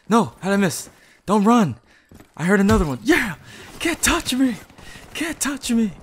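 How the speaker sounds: high, loud cocky shouts; taunting enemies in triumph; hype yelling. Real, not acted. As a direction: boast loudly while fighting. Excited fight mid-game.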